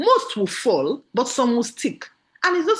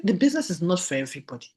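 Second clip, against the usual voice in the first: breezy dismissal; 2 semitones lower, faster than usual. Retold or imitated. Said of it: "I said".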